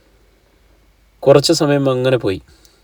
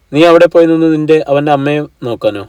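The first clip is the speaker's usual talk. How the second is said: 1 outraged mother. Acted. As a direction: snap it out in disbelief, quickly. Mother bursts out at daughter. (അമ്മ മകളോട് ദേഷ്യത്തോടെ വേഗം പൊട്ടിത്തെറിക്കുന്നു)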